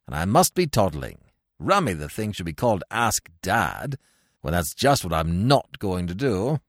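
breezy silly-ass Englishman, lightly voiced. Cyril telling Wooster about his stage part, low and chummy.

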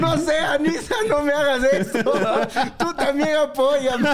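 very high, hammed-up plea; comic helpless protest, drawn out at the end; mock pleading. Acted pleading with laughing boss.

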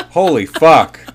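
high, loud shocked laughter. Real, not acted. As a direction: laugh out in disbelief. Reaction to pregnancy news.

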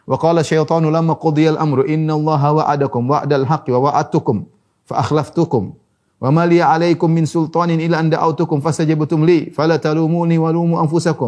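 measured, sustained recitation of scripture; Quran recitation. Acted. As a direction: recite the Arabic verse in long held phrases.

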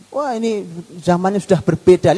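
lightly voiced dismissive "zaman sudah berbeda" speaker; mild mock of a modern skeptic; mocking quote. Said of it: "Lihat kalimat zaman berbeda itu".

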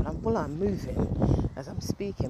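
breathless while walking; out of breath. Real, not acted. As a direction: talk while short of breath. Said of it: "I don't know why I'm out of breath".

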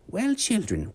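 put-on old witch voice. Miss Needles speaking to the children, high witch voice.

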